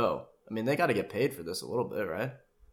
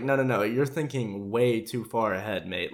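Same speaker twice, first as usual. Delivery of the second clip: serious Australian dad. Retold or imitated. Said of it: "gets, like, serious about it".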